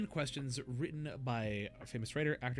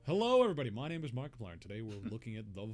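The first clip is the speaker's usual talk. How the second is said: Markiplier intro; 3 dB louder, faster than usual. Pretend. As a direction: greet like an energetic YouTuber. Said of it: "Thank you, Markiplier".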